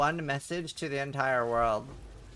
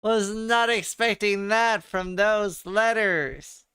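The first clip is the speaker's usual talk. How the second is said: stunned; 6 semitones higher, 6 dB louder, slower than usual. Real, not acted. Reacting to a pronunciation.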